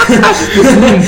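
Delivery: high burst of laughter into a hum. Real, not acted. Laughing about the fake chicken burger. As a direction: cackle then hum. Laughing at vegan meal joke.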